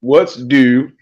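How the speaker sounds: slow, drawn-out repeat. Shown as a demonstration. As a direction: stretch out the words to get them right. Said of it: "Say it again".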